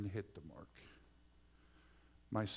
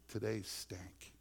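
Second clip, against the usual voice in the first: slow; much slower than usual. Retold or imitated. Father admitting bad day.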